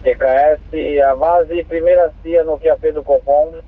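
crackly two-way radio transmission; squelchy handheld radio; police radio. Real, not acted. Dispatcher gives address over radio.

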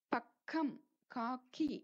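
பக்கம், காக்கி with a breathy kh; aspirated k. Shown as a demonstration. Teacher giving examples, பக்கம் and காக்கி with kh. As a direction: puff air on the kk in பக்கம், காக்கி. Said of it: "ஏர் வெளியே வரணும்".

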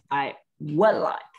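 "would" light and short, slowly. Shown as a demonstration. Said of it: "Look at my mouth".

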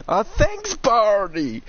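very high, loud squawked thanks; exaggerated thanks. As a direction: shoot way up high for a hammed-up thank-you. Over-the-top thanks to a chatter.

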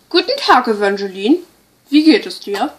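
a lightly voiced worried shepherdess; disguised voice. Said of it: "meine Stimme zu verstellen".

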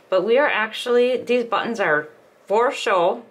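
talking around a needle in the mouth; speaking with something held in the teeth; mouth full. Real, not acted. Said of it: "Sorry, I got my needle in my mouth".

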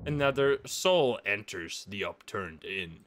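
low, slow chapter heading; title card read-out. A narrator's reading. Player reading out the chapter title, low narration.

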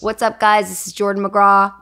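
loud self-introduction, lightly put on; teasing copy of an onstage announcing voice; a performer's famous voice. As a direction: mimic a performer's intro, projected. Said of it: "It's the famous voice".

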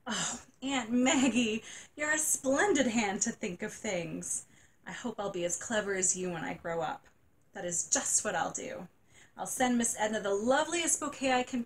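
put-on a girl brightening through tears; a touch of crying turning to delight; grateful little girl. Janie cheered by the idea.

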